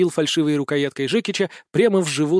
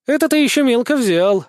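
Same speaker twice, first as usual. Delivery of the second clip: small tearful voice, high and louder; sniffling girlish helper; tearful thin voice; 8 semitones higher, 6 dB louder than usual. A narrator's reading. Spirit helper in his head, tearful and high. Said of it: "всхлипнул тоненький голосок Хихаль".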